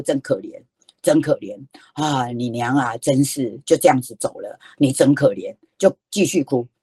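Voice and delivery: low-pitched, soothing grandma sympathy; mock commiseration. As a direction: commiserate gently with a crying child, voice dropped. Grandma commiserates with crying child. (低声哄着、同情孩子)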